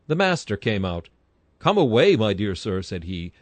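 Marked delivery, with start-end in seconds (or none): 1.6-2.8 raised, louder call to come away; a lightly acted master's shout; calling out a warning. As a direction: urgently call him back from the dog. Master calls the preacher from dog.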